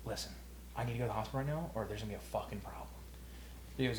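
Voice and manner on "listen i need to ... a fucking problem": retold warning. Retelling his warning to buddy.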